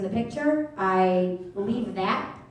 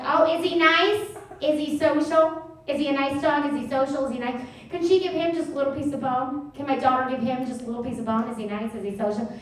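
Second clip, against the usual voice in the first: a hint of a prying mother; nosy mom impression; 3 semitones higher than usual. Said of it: "She's like".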